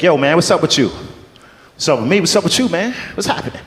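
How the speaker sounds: put-on Black American street accent; mock Black accent. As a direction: freestyle both parts in a hammed-up Black accent. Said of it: "I can do a black accent".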